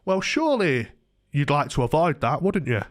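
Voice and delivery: mock condescending, leaning on "surely"; cunning, patronising. Landlord nudging his tenant about eviction, slyly patronising. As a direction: imitate someone talking down to you. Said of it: "he went in a really patronising".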